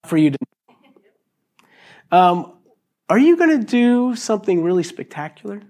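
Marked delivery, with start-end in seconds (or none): 0.0-2.2 slow, secretive whisper; hushed whisper. Acted. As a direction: breathe it out slowly like a secret. Repeats Jesus' answer, hushed.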